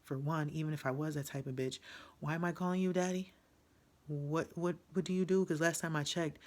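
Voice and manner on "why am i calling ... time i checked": raised, incredulous outrage; who does he think he is, rising; indignant. Real, not acted. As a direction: fire it back at him, higher and louder. Outraged rant at the man.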